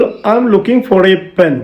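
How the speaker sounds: very slow, clear example read; slow example sentence. Shown as a demonstration. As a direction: read each word out slowly for learners. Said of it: "For example". (വളരെ പതുക്കെ വ്യക്തമായി)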